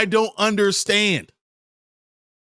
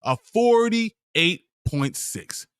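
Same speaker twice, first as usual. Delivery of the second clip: slow disbelief; 3 semitones higher, much slower than usual. Real, not acted. Repeats the grade in disbelief.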